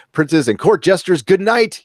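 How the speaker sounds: rising, ringing farewell to the court; grand royal sign-off. Pretend. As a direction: proclaim it like a herald.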